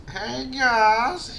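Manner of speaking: high, fussy auntie voice; old auntie voice. Acted. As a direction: chatter like a nosy aunt. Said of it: "give him an old auntie voice".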